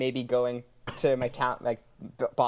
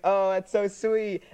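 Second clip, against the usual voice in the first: drawn-out, higher imitation of a touched mom; happy mom, retold; 4 semitones higher, much slower than usual. Son quotes mom happy about his date, imitated gushing. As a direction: stretch it out like a delighted mother, lightly imitated. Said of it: "she was so happy about it".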